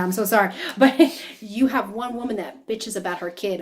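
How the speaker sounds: a real laugh breaking the line; laughing through it. Real, not acted. Laughing apology mid-reading.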